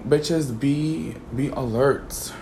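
ordinary talk

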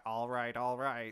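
Matthew McConaughey. Pretend. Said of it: "good impression of him".

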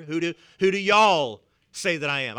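southern accent. Shown as a demonstration. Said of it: "our southern accents here".

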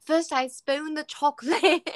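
lightly mock a kid presenting his recipe; British little boy. Host quoting the kid's chocolate demonstration, British little boy. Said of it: "So he's like".

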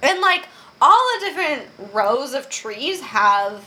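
talking while chewing apple; words round a crunchy bite; crunching an apple. Real, not acted. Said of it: "if you hear me crunching, it's because I'm crunching on an apple".

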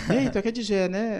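high, loud street call. Retold or imitated. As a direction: shout it across the street. Fan calling out in the street.

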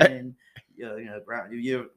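loose mock-English crew introduction; half-serious English accent; put-on English accent. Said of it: "Oh, he's English or something".

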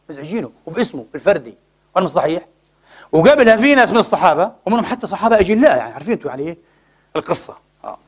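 usual speaking voice

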